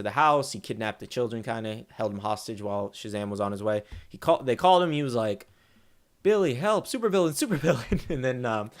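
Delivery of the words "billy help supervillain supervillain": high-pitched, louder mock panic; mock cry for help. Kids calling their hero for help, mock panic. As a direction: imitate a kid calling out for rescue.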